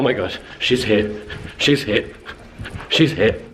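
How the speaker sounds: breathless excited oh my Gods; gushing rapid excitement. Real, not acted. Fan excitedly spots Anna.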